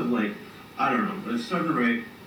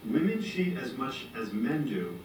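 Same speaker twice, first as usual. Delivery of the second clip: slower, deliberate reread; 3 semitones higher than usual. Shown as a demonstration. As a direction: read it again slowly and clearly. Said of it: "I love reading those".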